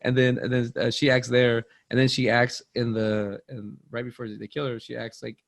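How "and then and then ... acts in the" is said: usual speaking voice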